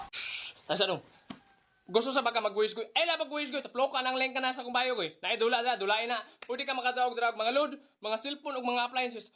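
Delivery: quiet voice after a shush; hushed talk. Acted. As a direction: keep it down so nobody hears.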